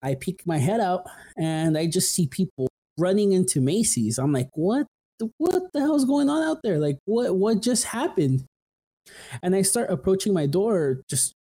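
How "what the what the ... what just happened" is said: much higher, startled retold question; alarmed disbelief. Retelling his shock at shoppers fleeing, much higher alarmed disbelief. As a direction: replay the shock of seeing people run.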